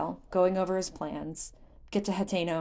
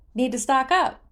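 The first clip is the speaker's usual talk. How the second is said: lively merchant; 7 semitones higher, 9 dB louder than usual. A narrator's reading. Beetle the merchant speaks.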